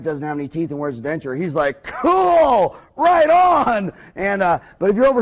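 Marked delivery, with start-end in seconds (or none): 1.8-3.9 high, hammed-up cheer; mock enthusiasm. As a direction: whoop it like a thrilled young husband. Acted young husband's delighted reaction.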